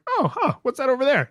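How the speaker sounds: high, curious "what's that" pitch; curious surprise. Retold or imitated. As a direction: perk up at something on the horizon. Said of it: "and I was like".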